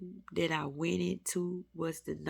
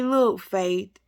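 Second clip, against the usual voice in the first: pleading prayer to Faith; 5 semitones higher, 6 dB louder than usual. Pretend. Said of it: "call faith down and say".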